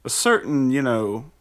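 TV weatherman voice. Retold or imitated. Weatherman forecast parody.

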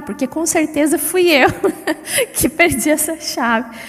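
laughing mid-sentence at her own fault; amused confession. Real, not acted. Woman admitting she lost the key, laughing. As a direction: break into a laugh while confessing.

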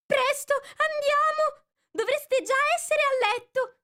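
very high, loud twittering call; trembling canary. A narrator's reading. Canary calling her chicks home in a trembling high voice. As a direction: hurry the little ones home. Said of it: "con voce tremante".

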